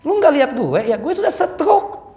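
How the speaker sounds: a hint of a sheepish uncle admitting he's had a stroke; old man's reply. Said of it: "Kita tanya, "Om".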